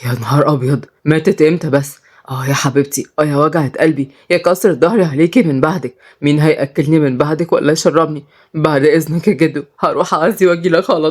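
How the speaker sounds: mildly hammed-up mourning; feigned grief. The speaker pretending someone died, mock grief. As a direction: lament with put-on sorrow, pitched slightly down. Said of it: "وعمل نفسه شاف خبر وحش".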